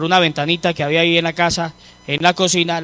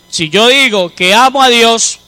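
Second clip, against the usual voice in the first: scripture quote; 4 dB louder than usual. Acted.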